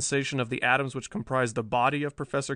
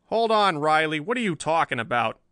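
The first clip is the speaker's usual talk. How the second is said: higher and louder gruff editor; gruff growl; 3 semitones higher, 5 dB louder than usual. Acted. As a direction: snap at him to hold on. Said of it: "growled Bland".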